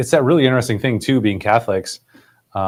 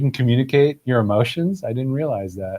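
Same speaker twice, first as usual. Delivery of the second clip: mock surprise; 4 semitones higher than usual. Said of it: "and I was like".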